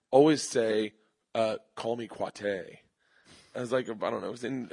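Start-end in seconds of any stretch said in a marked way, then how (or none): 1.8-2.8 slow low punchline. Acted.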